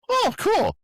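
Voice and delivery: high mock reaction. Mock-casual reaction to coin.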